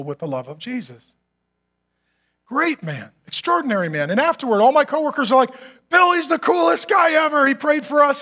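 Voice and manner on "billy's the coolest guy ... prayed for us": excited cheer. Retold or imitated. Excited coworkers.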